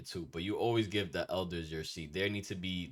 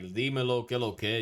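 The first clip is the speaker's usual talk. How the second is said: casual street greeting; 3 semitones higher, 3 dB louder than usual. Retold or imitated. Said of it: "I know I told y'all".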